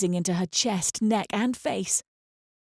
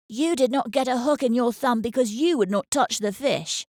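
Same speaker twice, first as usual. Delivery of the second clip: put-on higher boy voice, pointed and accusing; 5 semitones higher than usual. A narrator's reading. Older brother accuses younger one, accusing boy. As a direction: jab at your little brother. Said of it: "Benjamin accused".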